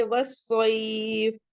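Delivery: slow recited वस्सैफ with the ai held two counts; slow recitation ending in a pause; recitation demo. Shown as a demonstration. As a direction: recite वस्सैफ slowly, holding it before the stop. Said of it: "इसे भी टू count पढ़ लीजिए".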